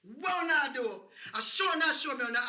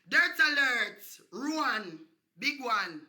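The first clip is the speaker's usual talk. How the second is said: loud announcing dirt alert; alarm call; 5 dB louder, slower than usual. Acted. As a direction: bark it like a siren warning. Mock roll call alarm.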